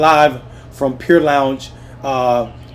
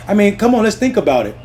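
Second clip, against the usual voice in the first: angry outburst; 7 semitones higher, 4 dB louder, faster than usual. Real, not acted. Angry rant resumes.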